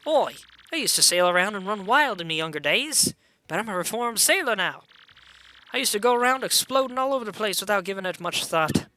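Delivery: lightly voiced old sea dog; a hint of a sailor looking back on wild days; reformed sailor. Sailor recalls his exploding younger days, lightly put-on role.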